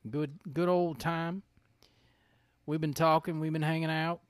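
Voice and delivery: put-on Southern accent. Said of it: "we can do these accents".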